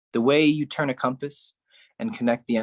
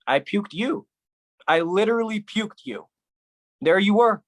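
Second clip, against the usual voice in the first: 1 incredulous outburst; 7 semitones higher than usual. A narrator's reading. Disbelieving outburst.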